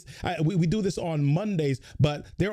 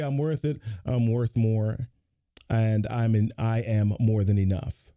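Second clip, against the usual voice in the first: lower, listless, no conviction; deflated demo of a weak affirmation; low-energy; 4 semitones lower than usual. Shown as a demonstration. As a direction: say it like you don't believe it. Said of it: "If I say it like that".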